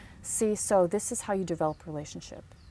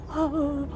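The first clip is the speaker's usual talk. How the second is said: small retold gasp, higher "oh"; stunned gasp; 7 semitones higher than usual. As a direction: act out the breath knocked out of you. Retold shock after being rejected.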